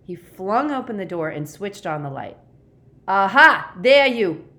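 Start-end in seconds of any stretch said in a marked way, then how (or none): 3.1-4.5 very loud, high gotcha cry; exultant yell of discovery; triumphant shout. A narrator's reading. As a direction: pounce with a triumphant bellow. Monitor bursts in to catch culprits.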